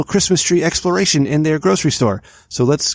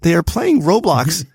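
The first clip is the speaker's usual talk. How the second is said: incredulous; 3 semitones higher than usual. Real, not acted. Outraged punchline.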